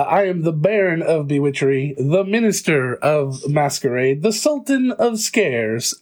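slow, grand spooky baron; spooky vampire voice. Acted. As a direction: announce yourself like a vampire lord. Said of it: "very spooky".

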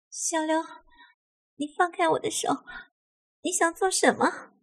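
high-pitched flustered woman, not shouted; panicked protest. A narrator's reading. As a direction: protest in alarm in a high feminine voice. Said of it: "惊慌地叫道".

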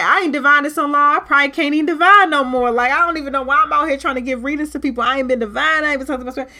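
frantic worrying about whether she can still divine; panicky self-doubt. Retold or imitated. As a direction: blurt the fear out at speed. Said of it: "I was scared 'cause I was like".

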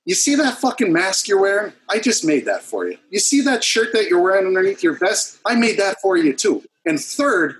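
blunt, worked-up retort without full shouting; retold indignant yelling. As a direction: reenact a fed-up telling-off, pitch climbing. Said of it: "You shouldn't have yelled at me".

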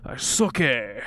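drawn-out Southern vowels; Southern accent character. Acted. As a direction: call a name in a Southern drawl. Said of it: "more like a Charleston Southern accent".

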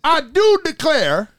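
high, slow southern belle with a laugh. Pretend. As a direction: swoon it like a southern lady, laughing. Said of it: "That needs to be a drop".

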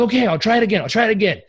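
high, mock-tearful giving in; imitating shaken client. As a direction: give in as if close to tears. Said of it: "like, almost crying".

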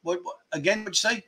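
soft, gentle asking again; gentle polite asking. Retold or imitated. Asking a friend to repeat, softly. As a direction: softly ask them to repeat themselves. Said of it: "not, like, aggressive".

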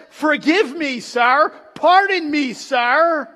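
high, loud quoted apology; exclaimed apology. Retold or imitated. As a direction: imitate a courteous apology, projected to the room. Voicing queen's apology to executioner.

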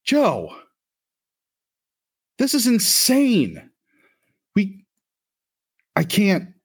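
high, strained pleading voice; panicked Otto. Acted. Otto begs Joe to understand why he leaves, high strained plea. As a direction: plead like a man at his wits' end. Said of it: "Otto's like".

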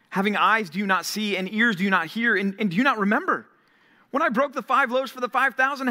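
earnest preacher voicing Jesus' rebuke; Jesus rebuking. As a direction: press the questions like a grieved teacher. Preacher voices Jesus rebuking disciples.

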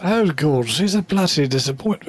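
lightly put-on British accent. Joining in the teasing of Cam, mock British. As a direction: echo the jibe with a hint of British. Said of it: "now you guys are doing it".

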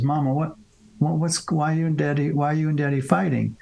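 a hint of a child's questioning voice; child asking mother. Kid asks mother about parents fighting, lightly voiced child. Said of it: "the kid goes to the mother first and says".

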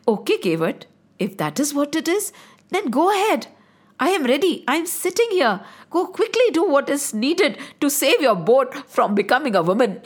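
indulge the boatman with a smile; amused agreement. Acted. Ramji to the boatman, amused and chuckling.

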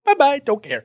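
breezy high sing-song brush-off; dismissive. Acted. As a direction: wave it away, carefree. Dismissive brush-off of bad theology.

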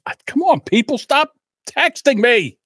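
fed-up aside to the phone; annoyed aside. Real, not acted. Phone buzzing during the set.

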